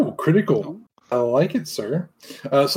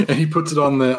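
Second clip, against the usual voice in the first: laughing; much faster than usual. Real, not acted. Still laughing while narrating.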